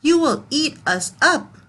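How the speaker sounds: yelling pigs. Acted. Pigs yelling at the wolf, high mock yell. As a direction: shout the fear at the wolf. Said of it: "yelled the pigs".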